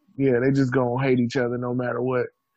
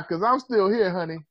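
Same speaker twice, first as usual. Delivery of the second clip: diva boast; 4 semitones higher than usual. Retold or imitated. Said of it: "different ring to it now".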